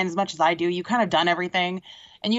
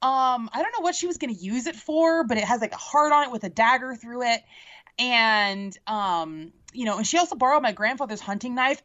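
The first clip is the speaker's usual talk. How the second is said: pretend plea; 3 semitones higher than usual. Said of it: "talk to Snow White and be like".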